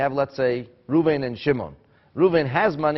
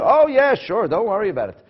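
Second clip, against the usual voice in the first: breezy reassurance; 8 semitones higher, 5 dB louder than usual. Retold or imitated. Borrower brushes off the lender.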